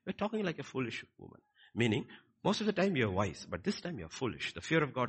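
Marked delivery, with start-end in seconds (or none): 0.0-1.4 gentler, higher-pitched acted reproof; measured husband's reproof; careful correction. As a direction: correct without shouting. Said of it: "how careful with his words".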